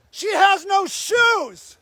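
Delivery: each word of She has no shoes drawn out; slow, angry insistence; slow, stressed plea. Real, not acted. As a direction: stretch out She has no shoes, pleading hard.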